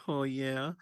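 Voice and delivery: bright upbeat "oh yeah"; playful imitation of Sassy; mimicking a friend. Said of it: "I was mimicking you".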